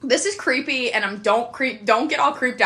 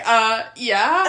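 laughing; 4 dB louder than usual. Retold or imitated. Admitting friend is single again.

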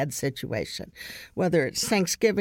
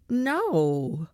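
higher-pitched, mock wounded protest; retold guilt-trip; 6 semitones higher than usual. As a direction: imitate a son laying on the guilt. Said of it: "Guilt, guilt, guilt".

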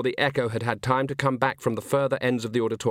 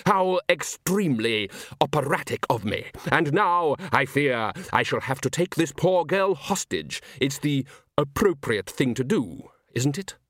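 lightly voiced urbane villain; theatrical villain, politely mocking; 3 semitones higher than usual. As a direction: feign polite regret while taking a hostage. Voices Salzella taking hostage.

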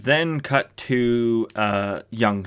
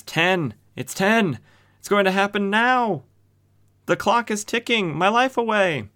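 much higher, hammed-up panic over the clock; mock panic; 11 semitones higher than usual. Doomed rich man counting down to his own death, in mock panic. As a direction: play the doomed man losing it as time runs out.

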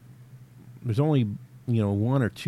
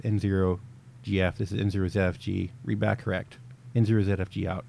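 radio sign-off. Shown as a demonstration. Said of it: "And then I would reply with".

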